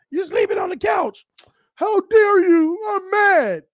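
high, loud play-scolding; pretend-mad wife shouting about the couch; mock anger. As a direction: fake fury at her husband, hammed up. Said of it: "No, I'm just playing".

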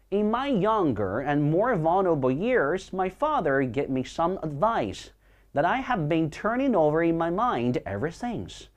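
slow, measured demonstration reading; reading aloud. Shown as a demonstration. Teacher reads the Gatsby sentence to class, slow reading aloud. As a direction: read it out slowly and deliberately for learners. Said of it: "我们来读一下这句话啊".

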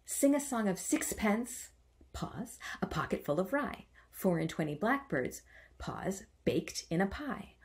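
nursery rhyme with marked pauses mid-line; caesura pauses. Shown as a demonstration. Teacher showing the caesura in a nursery rhyme, pausing. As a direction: stop on each caesura before going on. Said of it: "This is a pause for emphasis".

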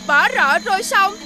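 laughing through the words; gloating laugh. Acted. Boy laughs at the blind fortune-teller he tricked. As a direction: chuckle at the fooled man while gloating.

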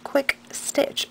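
tongue ring in the mouth; tongue piercing. Real, not acted. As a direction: talk around a tongue ring. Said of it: "Oh, see, can't talk".

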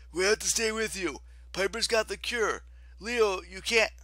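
pleading protest. A narrator's reading. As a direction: beg your friend over the noise. Friend pleads to stay.

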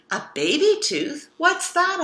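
put-on high, bright child voice asking; a small girl puzzled by a new word; curious little Peppa. Peppa asks a question.

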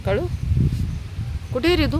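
high sing-song call for the dog; high coaxing pet call. Real, not acted. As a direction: coax the puppy out. Calling the dog sweetly.

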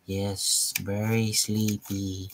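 slow, soft hypnotist murmur; mesmerizing. Pretend. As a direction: drift them off to sleep. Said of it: "Listen to my voice".

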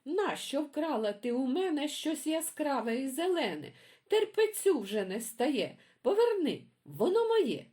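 high, loud furious accusing screech rising to a shriek; angry magpie yelling. Acted. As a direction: demand it back, screaming at the thief. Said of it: "горло криками деруть".

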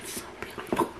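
breathy whisper of wonder; hushed admiration; awed whisper. Real, not acted. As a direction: whisper it, overcome. Overwhelmed by the lining.

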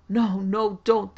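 high, loud, desperate plea; wretched begging. A narrator's reading. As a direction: beg frantically to be spared. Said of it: "they begged wretchedly".

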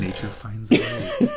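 movie quote. Retold or imitated. Quoting the movie line.

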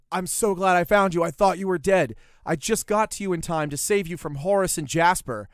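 mock-earnest, emphatic relief; retold breathless relief. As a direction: gush it as the rescuer who arrived in time. Retold relief of friend finding him.

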